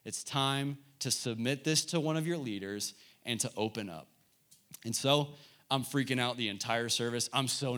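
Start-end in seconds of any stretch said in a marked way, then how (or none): 0.1-4.1 a touch of soft, gentle voice, quieter; gently voicing the Lord's nudge, softly; lightly voiced tender inner voice; sweetest way. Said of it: "revealing to me in the sweetest way".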